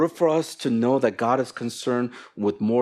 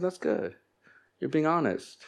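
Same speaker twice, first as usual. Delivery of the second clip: soft, higher-pitched encouragement; gentle reassurance; 4 semitones higher, 6 dB quieter than usual. Retold or imitated. Pastor to someone who admitted struggling, gentle reassurance. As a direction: reassure softly, voice lifted. Acted reassurance to honest friend.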